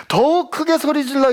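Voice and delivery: high, forceful retelling of a yell. Retold or imitated. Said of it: "악을 쓰는 거죠".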